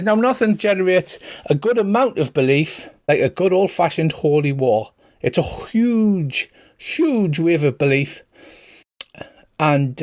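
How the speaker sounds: a sly priest spinning a tale over drinks; Irish accent. Acted. Father Dougal lectures the party about gods and belief, light Irish accent. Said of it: "pretend Colin Farrell accent".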